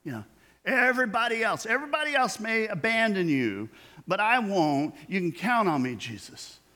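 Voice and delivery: lightly voiced eager disciple; eager Peter. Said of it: "and he's like".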